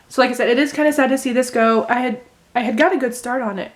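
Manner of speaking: talking through hiccups. Real, not acted. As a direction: hiccups breaking into the words. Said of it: "I'm hiccuping".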